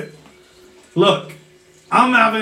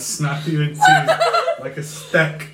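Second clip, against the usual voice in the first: low menacing mutter, lightly voiced; gruff character threat; 6 semitones lower than usual.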